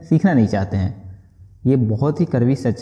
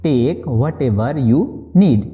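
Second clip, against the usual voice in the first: slow restatement before explaining; slow repeat; much slower than usual. Shown as a demonstration. Teacher repeating the phrase slowly before translating. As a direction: say it again slowly. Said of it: "बोलेंगे".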